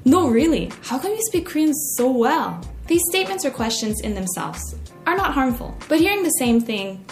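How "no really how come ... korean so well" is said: incredulous. Retold or imitated. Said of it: "with increasing incredulity".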